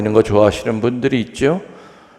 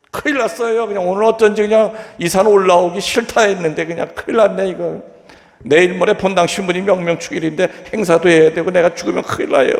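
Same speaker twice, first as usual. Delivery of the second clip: desperate pleading; 7 semitones higher than usual. Retold or imitated. Dangling man begging for rescue.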